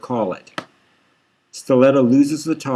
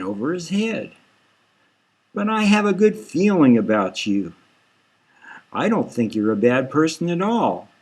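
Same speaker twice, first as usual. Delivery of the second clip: lightly voiced kind, coaxing cop; a hint of friendly reassurance; 3 semitones higher than usual. Stilletta soothing the suspect, mildly kind. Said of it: "It's a relief just to hear a kind voice".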